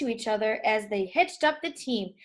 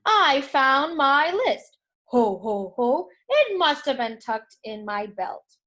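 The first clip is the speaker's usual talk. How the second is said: hearty ho-ho Santa, louder; jolly Santa; 4 dB louder than usual. Acted. Santa cheered to find his list, hearty laugh. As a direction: boom it out merrily. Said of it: "suddenly jolly again".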